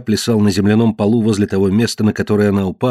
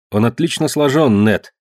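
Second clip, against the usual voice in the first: put-on higher, dull young woman; a worn girl admiring the stranger; Marge's voice; 4 semitones higher than usual. Marge to Ned about the captive, a higher dull voice.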